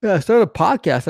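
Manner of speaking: yawning while talking. Real, not acted. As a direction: speak through a yawn. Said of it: "I started yawning all of a sudden".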